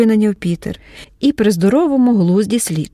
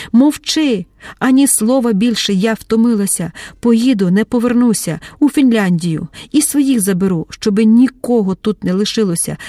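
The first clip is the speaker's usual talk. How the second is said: angry command. Acted. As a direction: shut him up and storm off. Mar'yana cuts him off, leaving. (гнівний наказ, потім втома)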